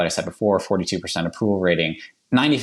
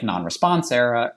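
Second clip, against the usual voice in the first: slipping into a Boston accent; 5 semitones higher than usual. Real, not acted. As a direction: let the Boston accent slip out on "error". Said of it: "there's my Boston accent coming out".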